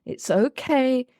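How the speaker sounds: slow, gentle calming tone; soothing voice. Shown as a demonstration. Therapist trying to calm a raging child, slow and soothing. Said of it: "if I come in with a soothing voice".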